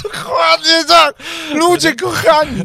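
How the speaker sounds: high, loud, laughing cry, slowed; laughing shout. Real, not acted. Cohost cracking up at the joke, loud high laughing shout. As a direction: burst out laughing and shout the agreement.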